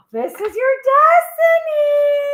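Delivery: very high, loud, drawn-out proclamation; dramatic proclamation. Pretend. Reader revealing the collective's message, high dramatic proclamation. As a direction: belt it out slowly, far up in pitch.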